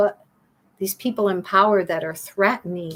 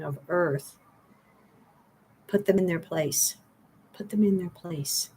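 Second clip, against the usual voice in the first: earnest prayer. Acted. Speaker voices a prayer for viewers.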